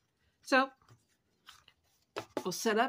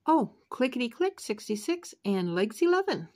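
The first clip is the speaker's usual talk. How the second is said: loud, sing-song bingo call; bingo caller; 3 semitones higher, 5 dB louder than usual. Pretend. Calling out traditional bingo calls.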